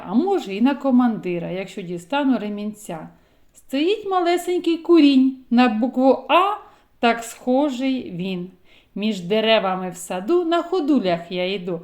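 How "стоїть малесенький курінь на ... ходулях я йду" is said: poem for preschoolers; children's poem recital. Acted. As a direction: recite like for little kids. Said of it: "reciting a children's poem".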